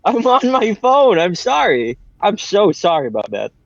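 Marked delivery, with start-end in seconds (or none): 0.0-1.2 slow, higher hammed-up declaration; mock dramatic line. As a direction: deliver it like a grave movie quote. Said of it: "Truly a classic quote from the film Batman".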